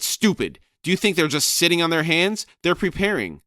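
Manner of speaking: loud, high furious squawking shout; shouting raven. Acted. Crone shrieking at Brood to find Rake, loud and high.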